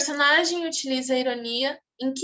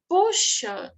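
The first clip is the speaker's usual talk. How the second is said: mock-impressed exclamation, pitched higher; exclamative; 8 semitones higher than usual. Teacher reading a comic man's line to class, exclamative. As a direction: exclaim it like someone amazed by technology. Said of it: "Ele tá sendo mais exclamativo".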